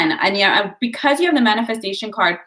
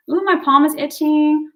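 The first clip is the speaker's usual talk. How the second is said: sudden high ooh, pleased surprise; ooh, catch the tingle; surprised; 7 semitones higher than usual. Real, not acted. Reader notices an itch, surprised high ooh.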